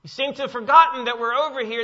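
loud, high, accusing cry; indignant disciples yelling at Jesus; rebuking complaint. Acted. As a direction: hurl the complaint at him. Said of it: "This is more like them saying".

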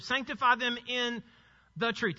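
pause, then "the truth" set apart; stress on the article. Shown as a demonstration. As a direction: hold off before "the truth" to show "the". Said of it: "You see the definite article?".

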